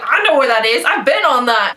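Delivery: excited recognition. Retold or imitated. Retells thrilled recognition of a place.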